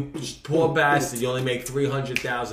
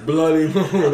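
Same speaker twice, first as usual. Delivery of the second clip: mock the slip, a little loud; laughing, teasing echo of someone's words; mocking repeat; 3 semitones higher, 6 dB louder, slower than usual. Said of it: "This kid cannot speak".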